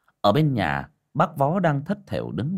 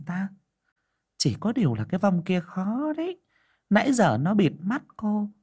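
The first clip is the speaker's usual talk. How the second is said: put-on higher, secretive old shaman; higher mystic old woman voice; fortune teller; 10 semitones higher than usual. A narrator's reading. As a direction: warn of the spirit like a seer. Shaman explaining to the mother.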